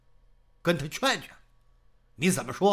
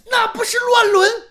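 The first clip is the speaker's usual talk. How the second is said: high, loud cry of protest; shocked outcry; 10 dB louder than usual. Acted. Old wife crying out at husband's shameful plan, loud and shocked. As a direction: scream it out in horror.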